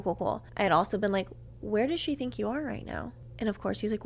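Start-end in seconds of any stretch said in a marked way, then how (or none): 1.6-3.1 soft, slightly lifted question; understated probing question; first, unheard asking. Retold or imitated. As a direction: ask it quietly, almost under your breath. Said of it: "magically couldn't hear me".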